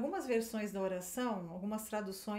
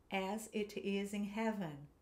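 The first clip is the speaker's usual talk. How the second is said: slow, each word distinct; teacher giving words one by one; slow separate words; slower than usual. Shown as a demonstration. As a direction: say each word apart, slowly. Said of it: "eu vou falando as frases".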